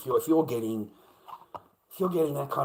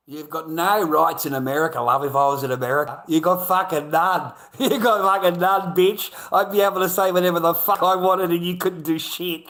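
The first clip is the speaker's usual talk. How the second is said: loud, raised-pitch rant broken by scornful laughs; angry taunting shout; 6 semitones higher, 12 dB louder than usual. Real, not acted. Streamer telling someone they have no rights in America, angry taunting shout. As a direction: shout them down, laughing between jabs.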